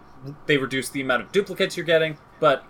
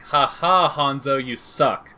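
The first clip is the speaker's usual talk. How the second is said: taunting Genji; 4 dB louder, slower than usual. Retold or imitated. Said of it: "Genji ... being like".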